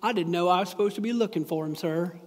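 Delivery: a fast, lightly voiced Forrest Gump. Preacher imitating Forrest answering Lieutenant Dan, lightly voiced. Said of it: "in my best Forrest voice".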